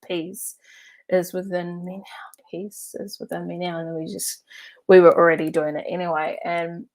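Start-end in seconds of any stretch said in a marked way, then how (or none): 0.1-3.8 hushed, near-whispered calm chant; serene mantra. Retold or imitated. Friends calmly reciting while passengers panic, serene hush. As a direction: murmur the mantra, untouched by the fuss.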